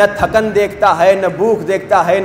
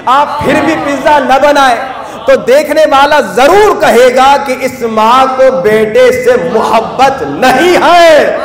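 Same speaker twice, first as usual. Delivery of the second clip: forceful preaching climax; 3 semitones higher, 4 dB louder, slower than usual. Acted.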